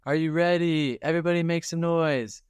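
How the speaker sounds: mock concert host shouting for noise; hype MC call. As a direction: whip up the crowd like a stage announcer. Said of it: "they go".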